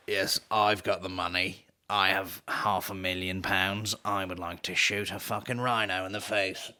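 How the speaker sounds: a hint of a creepy moneyed pervert; sick rich pervert. To listeners, mocking a rich trophy hunter with a lightly voiced pervert. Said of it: "you're some sort of sick pervert where you're like".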